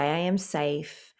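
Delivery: slow and calm self-reassurance; calm affirmation. Shown as a demonstration. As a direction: breathe out, then say it gently and slowly. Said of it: "and say".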